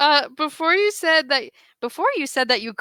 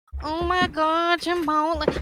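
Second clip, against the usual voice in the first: put-on little kid voice; 2 semitones higher than usual. Retelling a video of a kid eating a burrito: imitating a little kid. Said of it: "like a little four-year-old kid eating a burrito".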